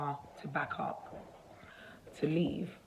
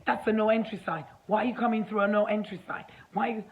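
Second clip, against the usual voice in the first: retold angry rant, a bit higher; mock angry screaming; 4 semitones higher, 4 dB louder, faster than usual. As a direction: imitate a man telling someone off, pitch raised. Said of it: "he just started screaming at me".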